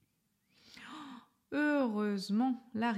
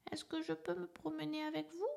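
tiny voice; 7 semitones higher, 7 dB quieter than usual. A narrator's reading. Little elephant asking his parents, tiny soft voice. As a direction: ask shyly, barely daring. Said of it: "d'une toute petite voix".

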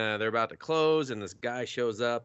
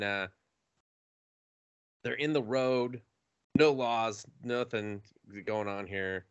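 ordinary talk

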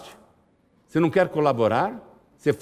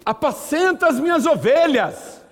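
Jesus' voice; 11 semitones higher than usual. Acted.

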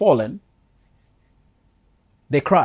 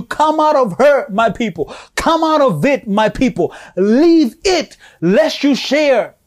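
a lightly voiced divine plea, higher on the commands; God pleading with his people, a touch higher and slower at the end; voicing God's call; 4 semitones higher than usual. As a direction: call them out tenderly as God. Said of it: "he's saying to you".

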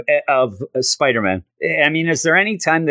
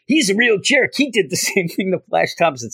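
higher-pitched agreeing classmate; Harry Osborn; 7 semitones higher than usual. Retold or imitated. Student backing up complaints about Peter, lightly voiced griping. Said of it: "then you just have Harry".

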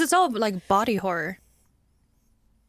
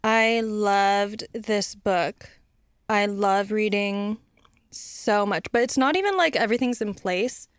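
flatline vocal fry. Pretend. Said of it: "their voice just flatlines".

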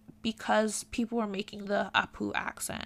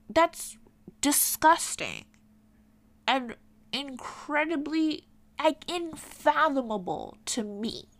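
real disgust, higher and emphatic; appalled; 4 semitones higher than usual. Real, not acted. Condemning requests to actors for Indian accents, appalled. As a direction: condemn it, leaning hard on the first words.

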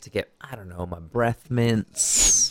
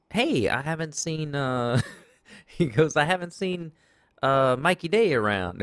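put-on mild Indian accent; 4 semitones higher than usual. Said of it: "He had the accent".

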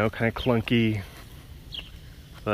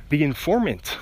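exclaimed title; 4 semitones higher than usual. Shown as a demonstration. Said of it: "Exclamation point".

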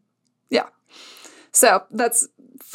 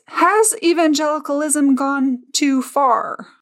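slow, grave anchorman question; parody news anchor; 4 semitones higher, slower than usual. Pretend. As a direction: ask it like a TV anchor. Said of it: "in my best news anchor voice".

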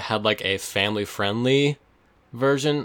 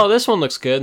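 imitating parents; 11 semitones higher, 7 dB louder than usual. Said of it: "and, like".

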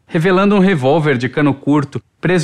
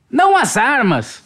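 higher, slow correction; eager correction; 8 semitones higher than usual. A narrator's reading. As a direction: correct her, drawing the words out. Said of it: "corrigiu Pikachu". (corrigindo com ênfase)

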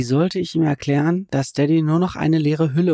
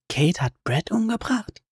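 shocked disbelief; 8 semitones higher, 3 dB quieter than usual. A narrator's reading.

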